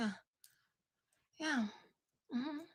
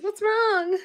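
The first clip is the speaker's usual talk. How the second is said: imitating Jen; 10 semitones higher, 4 dB louder than usual. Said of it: "Jen's like".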